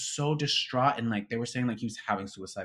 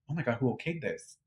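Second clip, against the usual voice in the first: hushed, appalled question; quietly aghast at what you saw; dismayed disbelief; 3 semitones higher, 5 dB quieter than usual. Retold or imitated. Retold first reaction to video.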